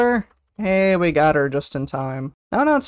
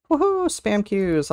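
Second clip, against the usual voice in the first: ordinary delivery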